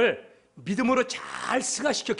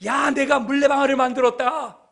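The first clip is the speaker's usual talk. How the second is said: raised, loud proud announcement; boasting; 6 semitones higher, 6 dB louder than usual. Acted. Young Newton showing classmates his water mill, boasting loudly. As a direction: show it off to everyone, high and loud. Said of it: "아이들에게 자랑하는 거예요".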